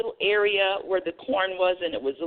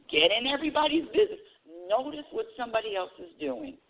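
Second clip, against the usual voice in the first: mock advice; 6 semitones higher, faster than usual.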